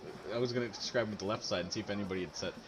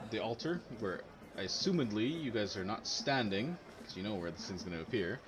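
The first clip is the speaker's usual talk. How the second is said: game master narration. A narrator's reading. GM describes portal opening.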